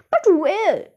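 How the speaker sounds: high, loud, acted shriek; shrieked question. A narrator's reading. Mother asks where her daughter has gone, shrieking. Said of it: "shrieked Miss Fla".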